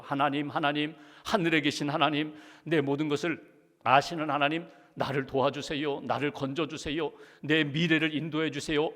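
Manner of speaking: just reciting the scripted prayer; script prayer read out. Retold or imitated. Preacher recites the actor's scripted prayer, calm and low. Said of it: "대사가 있어요".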